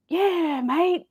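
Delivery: high, drawn-out Aussie reply; Australian guy. Retold or imitated. Retelling the reel's Australian answering, high mock Aussie voice. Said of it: "And he's like".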